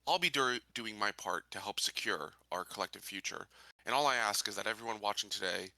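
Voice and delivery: measured public address, deliberate pauses between phrases; rally the colonists like a candidate; in-character speech. Acted. Sheriff candidate addressing fellow colonists on a broadcast, formal speech.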